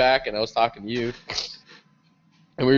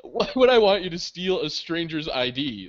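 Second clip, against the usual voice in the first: higher-pitched mock exasperation; incredulous protest; 7 semitones higher than usual. Scolding friend for stealing a stranger's ID, acted disbelief. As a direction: spell out the absurdity in disbelief.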